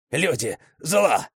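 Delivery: growled hatred. A narrator's reading. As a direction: growl each word slowly with hatred. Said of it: "зарычала она". (медленно, злобно прорычать)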